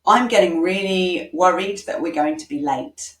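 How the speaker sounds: voicing worry to win help; worried parent, sharing feelings. Shown as a demonstration. Parent to child about lateness, worried and pleading. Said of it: "It's better than".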